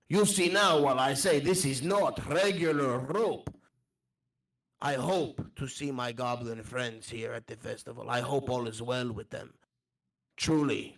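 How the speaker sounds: put-on earnest wanderer with a foreign accent; accented traveller. Recalling loyal goblin friends, accented traveller. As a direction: speak fondly as a foreign traveller.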